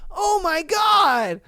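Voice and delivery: put-on high, drawn-out child voice; little boy. Little boy telling mom about the elephant, high mock child voice. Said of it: "That little boy was just like".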